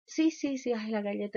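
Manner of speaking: sí agudo de sorpresa; mamá que cae en cuenta. Retold or imitated. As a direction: imita a la mamá que entiende. (mamá sorprendida, sí agudo)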